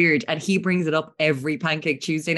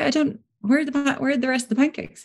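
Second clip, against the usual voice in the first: incredulous; 9 semitones higher than usual. Retold or imitated. Retold dismay at missing pancakes.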